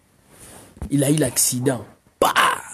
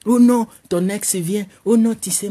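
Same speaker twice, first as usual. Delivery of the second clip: mock alarm; 6 semitones higher, 5 dB louder than usual. Girl alarmed, ex arrives.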